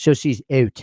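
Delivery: put-on little Canadian lilt on out at the end. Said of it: "little Canadian inflection there at the end".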